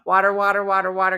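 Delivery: "water" repeated with an open "waw" vowel; practised standard pronunciation. Retold or imitated. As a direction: drill "water" carefully as "waw-ter". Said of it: "All right, hold on, hold on".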